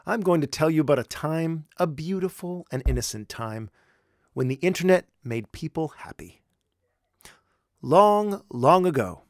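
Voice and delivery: spooky storyteller voice; mock campfire tale opener; horror host. Storyteller opening about old internet.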